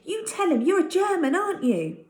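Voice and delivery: high and pressing; eager boy. Acted. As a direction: push for the answer. Tucky eagerly presses the German.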